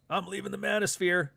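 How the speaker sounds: high, mocking declaration; mock announcement. Commentator mimicking a creator who quit, mock-declaring. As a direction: imitate a creator's grand exit line.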